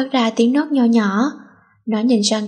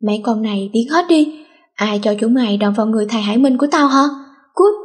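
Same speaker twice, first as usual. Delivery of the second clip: furious shout; faster than usual. Acted. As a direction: scream the fangirls out of the room. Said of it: "lấy hết hơi gào toán lên".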